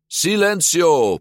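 high, loud, drawn-out order; slow, ringing command; emphatic command. A narrator's reading. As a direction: silence the inner doubter firmly. Luca silences his inner voice.

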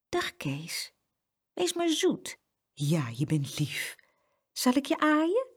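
soft, gentle talk to a dog; softly coaxing. A narrator's reading. Girl soothing a guard dog, softly coaxing. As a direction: coax tenderly, lilting up at the question. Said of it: "begon zacht tegen de hond te praten".

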